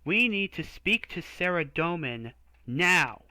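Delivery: slow, emphatic demand; insist, each word weighed; firm demand. Acted. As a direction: hero demanding the priest summon Saradomin. Demanding firmly of priest.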